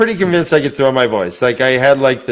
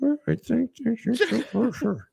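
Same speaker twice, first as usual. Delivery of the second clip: high, soft, fake sweet praise; high mocking praise; 8 semitones higher, 10 dB quieter than usual. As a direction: gush with mock sweetness. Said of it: "she's like".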